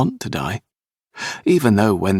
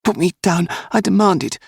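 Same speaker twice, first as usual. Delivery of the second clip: put-on imperious child; 12 semitones higher than usual. A narrator's reading. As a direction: order them like his papa would. Boy demanding to be put down.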